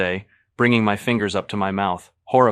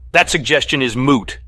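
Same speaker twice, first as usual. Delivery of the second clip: high, loud, exasperated scream; 7 semitones higher, 10 dB louder than usual. A narrator's reading. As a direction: blow up at his friends. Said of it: "McDermott screams".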